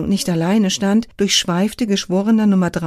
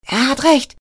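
higher, bold shout over the crowd; 6 semitones higher, 3 dB louder than usual. A narrator's reading. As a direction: call out bravely over the noise. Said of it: "schrie ein Schaulustiger mutig".

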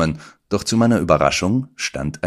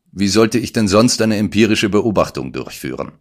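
innocently; 5 semitones higher, 4 dB louder than usual. Acted. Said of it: "antwortete er völlig harmlos".

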